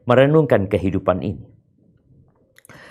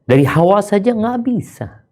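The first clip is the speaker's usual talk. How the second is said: emphatic preaching; 10 semitones higher than usual. Acted.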